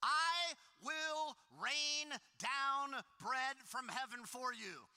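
God's solemn promise. Acted. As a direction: proclaim it like God himself. Reading God's words in scripture.

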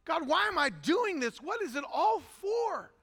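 impassioned reenacted plea to God; anguished questioning. Weeping pastor questioning God about his ministry, anguished. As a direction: plead for answers, rising in intensity. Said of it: "this moment of questioning".

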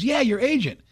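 high, bright call back; agent answering. Retold or imitated. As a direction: imitate the agent answering from the phone. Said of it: "He goes".

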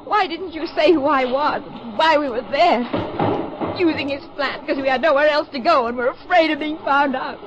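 rising, tearful accusation breaking into a sob-laugh; bitter outburst. Acted. Laura accusing her lover after the humiliation, tearful outburst. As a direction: let the hurt spill over into near hysteria. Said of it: "Stop it, Laura. Pull yourself together".

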